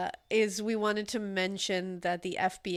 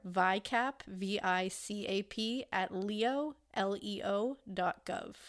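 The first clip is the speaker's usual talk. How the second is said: public appeal announcement. Real, not acted. Host appealing to listeners for any information, measured announcement. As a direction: read contact details clearly, slowing on each digit. Reads out tip-line contact details.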